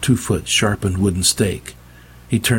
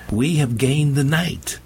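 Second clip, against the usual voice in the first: preaching; 3 semitones higher than usual. Acted. Preacher addresses his people.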